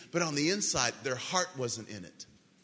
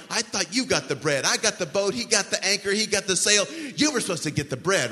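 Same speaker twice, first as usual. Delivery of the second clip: raised, louder bickering in a mild panic; mock panic; 5 semitones higher, 5 dB louder than usual. Disciples blame each other over forgotten bread, mock panic. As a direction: squabble like flustered disciples, voice pitched up. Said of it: "they're all in a panic".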